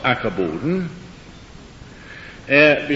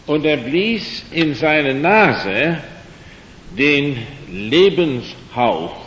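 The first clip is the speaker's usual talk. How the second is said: solemn scripture reading; slower than usual. Acted. Preacher reading Genesis aloud to his listeners, slow and solemn. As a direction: read each phrase out slowly and deliberately. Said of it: "Ich muss jetzt etwas vorlesen".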